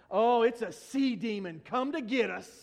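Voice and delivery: half-serious cry of alarm; mock freaked out. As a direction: play at panicking over a monster. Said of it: "they are freaked out".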